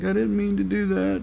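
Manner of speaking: high-pitched imitation of tearful pleading; mock crying. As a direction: whine it high, mocking bad crying acting. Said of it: "crying and stuff like that".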